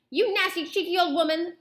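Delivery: high, loud indignant outburst; angry shout. A narrator's reading. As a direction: shout the insult in storybook outrage. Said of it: "shouted Mister Jenkins".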